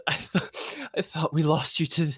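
mock-sobbing, breaking off and restarting; kind of sobbing. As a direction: choke out the words as if half sobbing. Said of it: "she's kinda sobbing".

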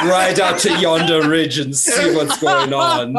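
German-accented cowboy impression; mock western hero gone German; German John Wayne. Rallying riders to the ridge, comic German cowboy voice. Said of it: "German John Wayne Pilgrim".

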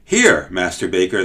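mildly excited call across the kitchen; calling excitedly. Acted. Servant calls the baker across the kitchen, excited. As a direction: call out, a bit eager. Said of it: "the man called excitedly".

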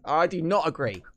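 high-pitched indignant wrestling-nerd rant; genuinely annoyed fan ranting; nerdy rant. Real, not acted. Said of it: "I sound like the wrestling nerd voice I do".

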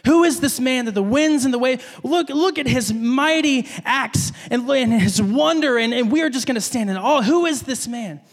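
a touch of awestruck amazement; reverent awe. Acted. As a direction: marvel at his mighty acts. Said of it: "to a reverent fear".

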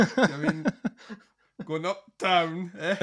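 Yorkshire-Jamaican mock accent. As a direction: tease a Jamaican accent that keeps slipping into Yorkshire. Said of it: "Like Jamaica by way of Yorkshire".

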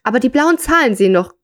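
measured read-aloud storytelling voice; story narration. A narrator's reading. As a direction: read the short story out to listeners.

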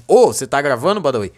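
mock just-noticed the mic, jumping up on "Ô"; put-on "oh, is this on?"; feigned surprise at recording. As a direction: pretend to catch them recording. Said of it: "eu não tô sabendo que tá sendo gravado".

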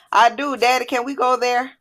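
lightly voiced child, asking sweetly on a high note; eager child. A narrator's reading. Daughter asks Daddy for sushi, eager and childlike.

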